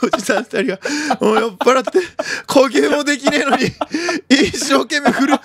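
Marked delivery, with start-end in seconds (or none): 1.2-5.4 out of breath. Real, not acted.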